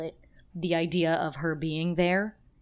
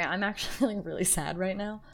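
sad laughing; 2 semitones higher, 3 dB quieter, faster than usual. Real, not acted. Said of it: "I'm laughing because of".

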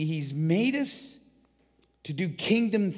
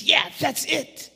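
high, loud burst of delight; light up as the idea lands; excited discovery; 12 semitones higher, 6 dB louder, slower than usual. Acted. Jesus in the workshop suddenly finds the idea, thrilled.

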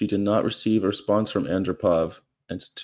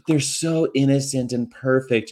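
gushing; 3 semitones higher than usual. Retold or imitated.

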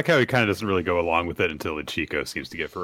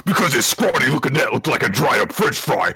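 trash-talking boxer; 4 semitones higher, 3 dB louder than usual. Pretend. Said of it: "why don't you give his speech a try".

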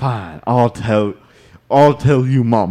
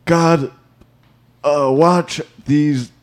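halting mock prayer with long pauses; deacon's prayer; 2 semitones higher, slower than usual. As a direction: grope for the words of a prayer.

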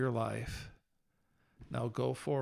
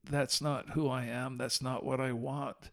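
retold prayer; 2 semitones lower than usual. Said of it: "I dropped to my knees and I said".

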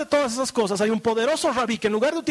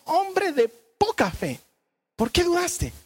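gentle rebuke; 7 semitones higher, slower than usual. Acted. Jesus rebuking Peter.

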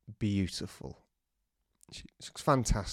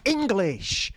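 high, drawn-out English English; slow loud English; 11 semitones higher, much slower than usual. Retold or imitated. Calling English to a man who doesn't understand. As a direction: spell it out like to a foreigner. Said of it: "I go ... like that".

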